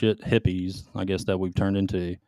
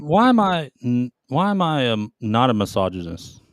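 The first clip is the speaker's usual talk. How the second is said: incredulous; 2 semitones higher than usual. Real, not acted. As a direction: act shocked at the accusation. Indignant rhetorical question.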